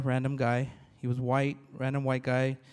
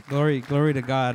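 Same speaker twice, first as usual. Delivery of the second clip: joyful praise; 6 dB louder than usual. Real, not acted. Praising God before the congregation.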